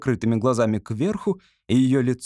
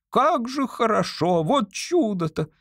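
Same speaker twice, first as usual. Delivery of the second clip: high, slow joyful exclamation; delighted wonder; 10 semitones higher, slower than usual. Acted. Hypnotized woman rejoicing at her youth, high delight. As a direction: marvel at being young again. Woman feels herself young again.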